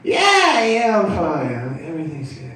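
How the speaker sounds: imitating a startled friend insisting he's okay; startled reassurance. Tripping friend answers a check-in.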